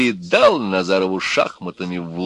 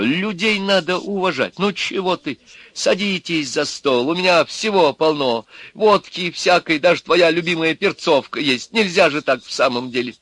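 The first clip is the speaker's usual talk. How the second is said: higher, louder pleading wife voice; wife coaxing husband; 8 semitones higher, 3 dB louder than usual. A narrator's reading. Wife urging electrician to join the table, coaxing. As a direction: coax him to sit at the table.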